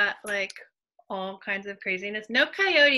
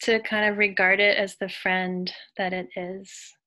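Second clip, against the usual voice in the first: calm, measured meditation voice with long pauses; guided meditation. Acted. Leader inviting women to breathe and imagine, guided meditation. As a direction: ease them into stillness, leaving space between phrases.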